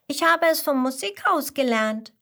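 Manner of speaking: put-on high, loud, eager child voice; bubbling over with enthusiasm; enthusiastic little koala. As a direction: announce it proudly to your mother. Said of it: "erklärt der kleine Koala begeistert".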